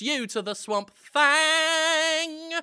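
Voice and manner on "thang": announcer reveal. Pretend. Presenting the star.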